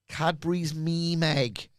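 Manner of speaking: pun delivery. Shown as a demonstration. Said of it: "I came up with a pun".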